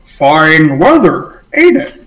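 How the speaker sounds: drawn-out words, pitch jumping up at the end; slow puzzled echo. Acted. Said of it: "the guy goes".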